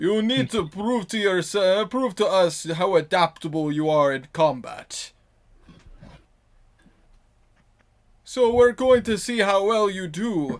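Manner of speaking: loud, really bad fake Russian accent. In character, addressing the group before combat, in a really bad Russian accent. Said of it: "my like really bad Russian accent".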